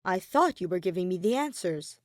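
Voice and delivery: dry, unimpressed statement; dry remark. Acted. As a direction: point it out flatly. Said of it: "pointed out dryly".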